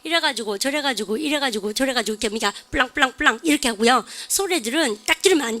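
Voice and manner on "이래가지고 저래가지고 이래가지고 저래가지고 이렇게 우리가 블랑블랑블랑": imitating level Daegu intonation; toneless Daegu accent. Teacher mimicking Daegu kids, toneless Daegu accent. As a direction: keep it on one pitch, Daegu style. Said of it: "대구 애들은 말할 때 보면 이렇대요".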